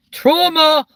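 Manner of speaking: long high yelped trauma; mock horror. Real, not acted. Exaggerating the audience's trauma with a high wail.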